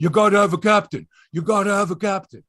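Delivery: insistent nagging. Retold or imitated. Fans pressing the Leafs to name a captain, imitated nagging. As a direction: imitate people pestering loudly. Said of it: "People kept going".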